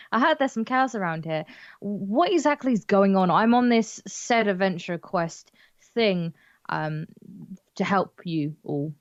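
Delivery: half-hearted, unsure offer of help; unconvincing. Acted. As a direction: say it like you don't believe it. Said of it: "I say unconvincingly".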